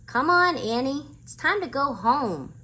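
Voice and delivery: high, loud call into the woods; yelling. A narrator's reading. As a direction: shout for her to come home. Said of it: "yelled Jack".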